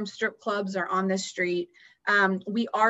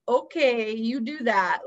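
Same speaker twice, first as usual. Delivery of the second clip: laughing disbelief; 3 semitones higher, 4 dB louder, slower than usual. Retold or imitated. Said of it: "And I laughed at her and I was like".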